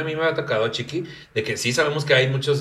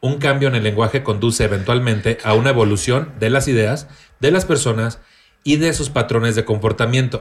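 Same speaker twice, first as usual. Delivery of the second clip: even, measured read-aloud of a definition; 3 semitones lower than usual. Acted. Host reads a written definition to the co-hosts, reading aloud. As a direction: read it out like a reference entry.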